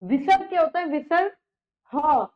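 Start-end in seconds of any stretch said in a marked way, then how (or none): 1.9-2.3 ह as a breath-released "ha"; visarga sound. Shown as a demonstration. Teacher showing the sound of visarga, aspirated syllable. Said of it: "ह की ध्वनि निकलती है".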